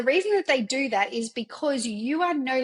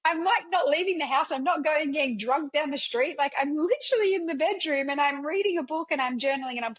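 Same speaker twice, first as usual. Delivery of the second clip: higher-pitched exasperated venting; frustrated; 4 semitones higher than usual. Retold or imitated. She vents to herself about not being allowed to read, exasperated. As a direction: replay your own frustration, pitched up. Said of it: "so fucking frustrated".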